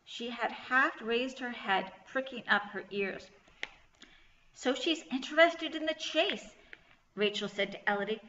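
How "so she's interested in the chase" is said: higher-pitched, intrigued realisation. A narrator's reading. Rachel to Elodie about the lamb, intrigued. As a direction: lift the voice with sudden interest. Rachel excitedly notices lamb's interest.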